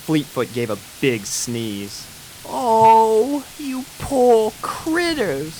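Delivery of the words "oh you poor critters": high, slow, tender Southern coo. A narrator's reading. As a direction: coo over wet puppies. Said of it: "cooed Applejack".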